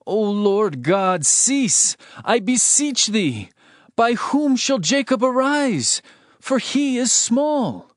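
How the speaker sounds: earnest slow entreaty; pleading prayer. Acted. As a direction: beg the Lord for mercy, slowly. Amos pleads with God again.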